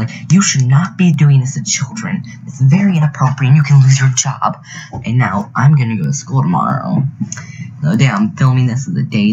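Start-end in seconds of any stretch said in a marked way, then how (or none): 0.3-4.6 mild mock yell of a scolding; half-strength retold telling-off. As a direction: imitate someone telling off an adult, only slightly raised. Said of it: "She started yelling at the bus driver".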